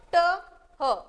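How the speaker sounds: ट and ह as separate letter sounds; isolated first sounds. Shown as a demonstration. Teacher showing pupils the different first sounds, sounded out separately. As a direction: sound out ट, then ह, each on its own. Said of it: "First word is different".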